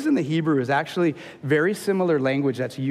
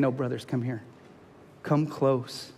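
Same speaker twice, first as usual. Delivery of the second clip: softer, gentle call to come close; gentle reassurance; 2 semitones lower, 5 dB quieter than usual. Retold or imitated. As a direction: reassure frightened brothers, soft and kind. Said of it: "assuring them of their safety".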